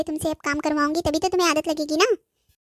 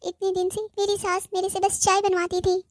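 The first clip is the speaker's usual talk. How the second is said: tearful whining; 3 semitones higher than usual. Acted. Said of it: "तू हर time रोते रोते call क्यों करती है".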